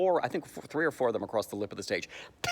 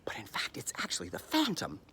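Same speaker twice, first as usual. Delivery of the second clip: hushed, conspiratorial whisper; mock-dramatic stage whisper; whispered reveal; 5 dB quieter than usual. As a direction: whisper the twist like a secret.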